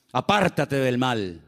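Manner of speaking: "Apártate" drawn out slowly, each word apart; slow verse reading. Shown as a demonstration. Preacher to congregation, reads the verse slowly and weightily. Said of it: "quoting the verse".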